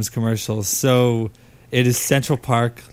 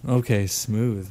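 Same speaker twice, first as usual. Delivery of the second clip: smooth; 4 semitones lower, 5 dB quieter, slower than usual. Pretend. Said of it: "it's gotta be smooth".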